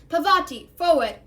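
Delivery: a teacher's sharp call; shouted. A narrator's reading. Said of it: "Professor Lupin shouted".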